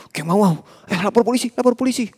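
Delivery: mock angry call. Angry bystander shouting to report the gang to police. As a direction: call out like an indignant townsman. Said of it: "Ngelihatnya itu marah".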